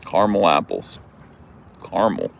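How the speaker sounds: caramel in two syllables, CAR-mul; Jersey caramel. Shown as a demonstration. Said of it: "All this Jersey stuff".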